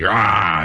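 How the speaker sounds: quick throwaway monster roar; imitated angry growl, not full force; mock Hulk roar. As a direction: toss off a playful Hulk roar. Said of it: "he goes crazy".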